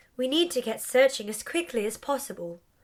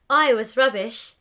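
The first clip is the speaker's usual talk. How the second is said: laughing; 5 dB louder than usual. Acted. Laughs heard on line.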